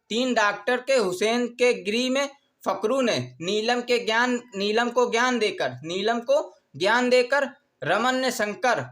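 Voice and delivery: measured recital, phrase by phrase with pauses; mnemonic dictation. Shown as a demonstration. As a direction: recite it deliberately for note-takers.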